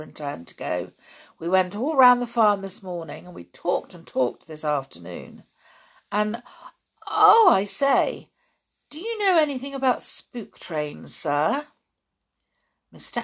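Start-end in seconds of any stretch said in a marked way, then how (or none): 1.4-11.7 put-on lightly excited boy blurting a question; bubbling over, asking sir about spook trains; eager boy. Jock eagerly asking his stepfather about spook trains.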